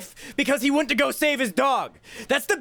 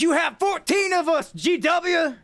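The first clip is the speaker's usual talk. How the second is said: hammed-up yelled retort; mock shout; 5 semitones higher than usual. Jeb yelling back at G W, hammed-up. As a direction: bark it back at him.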